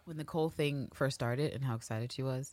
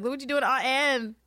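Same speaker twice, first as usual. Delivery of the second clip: Marion scolding; 10 semitones higher, 4 dB louder than usual. Retold or imitated. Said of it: "she's like".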